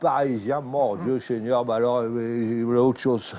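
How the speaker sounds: mock dismay. Mock dismay at a Parisian customer.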